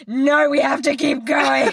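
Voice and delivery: lightly voiced child, slow and firm; little boy voice. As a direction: plead to keep going like a determined five-year-old. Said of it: "And Peter's like".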